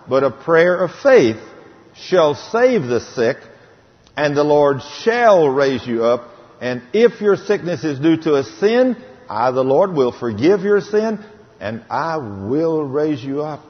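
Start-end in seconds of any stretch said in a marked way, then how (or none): 1.9-13.6 slow, deliberate scripture reading; preacher intoning scripture slowly; slow proclamation. Acted. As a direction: lay each word down slowly like a promise. Reading God's promise slowly.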